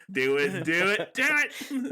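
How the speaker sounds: building from normal to a high squeal; escalating mock pleading, rising sharply in pitch; mock urging.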